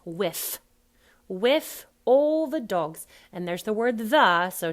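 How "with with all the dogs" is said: "with" said as wiff, slow; loud, drawn-out WIFF in "with"; Cockney th-as-f. Shown as a demonstration. Coach demonstrating the line, Cockney th-as-f. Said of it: "the end is an F".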